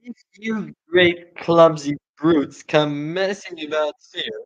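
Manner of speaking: high, loud, slow rat shriek. Acted. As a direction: screech it like a furious rat. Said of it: "why I'm doing that voice for him".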